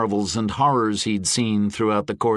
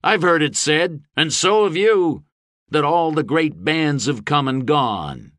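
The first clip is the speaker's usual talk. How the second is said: raised, higher oratory; rousing speech; 5 semitones higher than usual. A narrator's reading. Gabe to a restless audience of mercenaries, rousing speech. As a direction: address a crowd of fighters.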